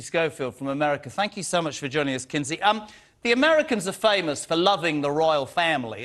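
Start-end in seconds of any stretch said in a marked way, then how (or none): 2.6-6.0 put-on a light, half-hearted American accent. Host introducing the US guest, in a light mock American accent. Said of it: "I don't even know why I did that accent".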